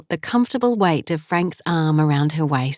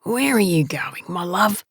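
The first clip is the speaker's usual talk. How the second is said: groggy. A narrator's reading. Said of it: "Frank's groggy voice".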